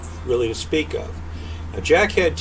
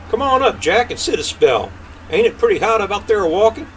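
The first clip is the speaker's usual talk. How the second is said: voiced king; 7 semitones higher, 3 dB louder than usual.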